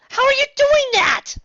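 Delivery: high, scared squeal; panicked high voice; frightened. Acted.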